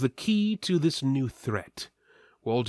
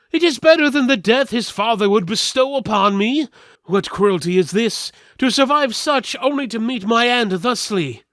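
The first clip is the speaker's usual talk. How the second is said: much higher and louder, rushed panic; flustered steward; 11 semitones higher, 9 dB louder than usual. Acted. The steward denying he knew of the prince, flustered and high. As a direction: sputter like a frightened courtier.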